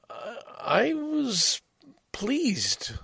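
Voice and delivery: hushed, breathy aside; soft whispered confession. Real, not acted. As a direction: drop to a whisper, pleased with yourself. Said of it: "whispered aside".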